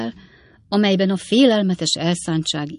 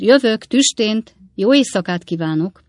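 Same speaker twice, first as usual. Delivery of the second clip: raised voice, stretched words; calling back; 5 semitones higher, 6 dB louder than usual. A narrator's reading. Calls back while saying good night.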